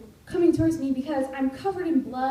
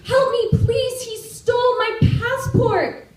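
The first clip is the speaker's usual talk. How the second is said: high, loud plea for help; frantic call for help; retold yell for help; 12 semitones higher, 9 dB louder than usual. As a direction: shout it across the road to the ladies. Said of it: "I yell to the fat old ladies".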